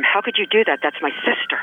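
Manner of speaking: loud, high, outraged retelling of a shout; retold shout. Al shouts at his friend for sending his sister, loud. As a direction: shout him down for endangering the sister. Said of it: "Al shouts at him".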